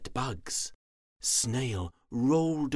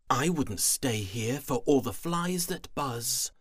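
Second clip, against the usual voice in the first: disdainful; 4 semitones higher than usual. Acted. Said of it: "She sniffed and rolled her eyes".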